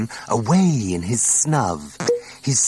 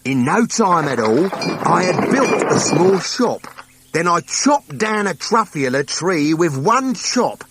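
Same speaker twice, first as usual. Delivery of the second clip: higher, eager voice full of delight; young Onceler marvelling at the trees; wonder-struck memory; 8 semitones higher than usual. Acted. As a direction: relive the thrill of discovery. Onceler recalls finding trees.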